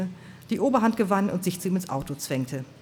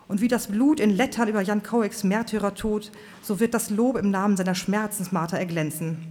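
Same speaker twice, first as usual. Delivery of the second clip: fiery preacher; 3 semitones higher than usual. Acted. Preacher Swan's fiery speech.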